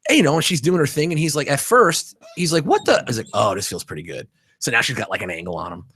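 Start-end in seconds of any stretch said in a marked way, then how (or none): 2.6-3.0 high-pitched mock bewilderment; startled client. Retold startled massage client. 3.3-4.3 pleased surrender. Retold or imitated. Client gives in, pleased.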